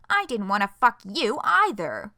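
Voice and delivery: loud, heated comeback; angry retort. Acted. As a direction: snap back in anger. Heated argument read aloud.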